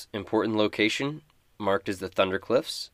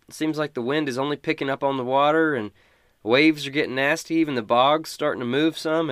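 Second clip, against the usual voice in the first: worried villager; 6 semitones higher, 5 dB louder than usual. Acted. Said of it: "She says".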